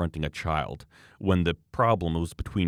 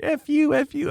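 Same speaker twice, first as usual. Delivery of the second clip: very high, louder mock swearing; swearing mother; 4 dB louder than usual. Mother swearing at the skier, mock fury. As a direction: squawk it as an angry caricature. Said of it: "she starts swearing at me".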